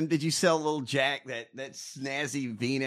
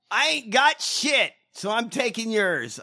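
mock campaign slogan; 6 semitones higher, 4 dB louder than usual. Host voicing a joke campaign slogan, loud proclamation. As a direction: belt it out like a slogan. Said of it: "I love that campaign slogan".

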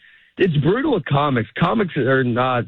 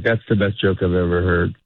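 deadpan praise; 5 semitones lower than usual. Retold or imitated. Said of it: "It sounds like I hate you".

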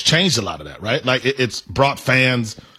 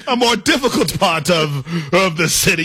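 mock British. Co-host mocking talk about the hood, mock British accent. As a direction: put on a teasing British accent. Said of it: "That's such a British thing".

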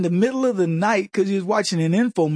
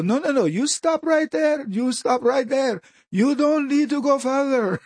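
put-on Indian accent. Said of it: "I didn't wanna just do the Indian accent".

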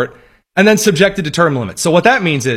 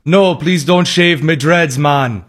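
hint of Jamaican accent; slower than usual. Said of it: "I'm so tempted to do the Jamaican accent".

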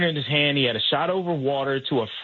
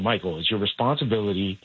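angel on shoulder; 5 semitones lower than usual. Retold or imitated. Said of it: "I got the angel on the other side going".

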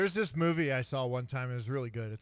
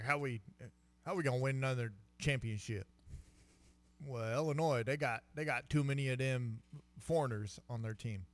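put-on Michigan accent; 3 semitones lower, 4 dB quieter than usual. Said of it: "Is that a Michigan accent you're doing".

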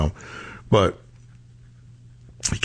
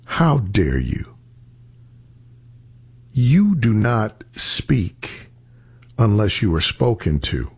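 stern retold rebuke; 3 semitones lower than usual. Number two guy scolds junior politician in meeting, stern and deliberate. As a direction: lay down the law, word by word.

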